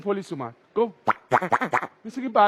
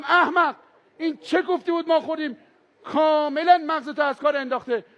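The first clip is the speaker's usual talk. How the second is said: mild mock yell; 4 semitones higher than usual.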